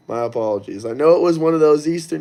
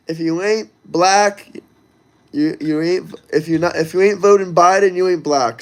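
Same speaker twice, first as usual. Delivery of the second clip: halting, stumbling mock quote; stuttering Biden. Streamer mocking Biden's quote to chat, stuttering. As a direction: trip over the words like an old politician. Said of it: "I'm stuttering like Joe Biden".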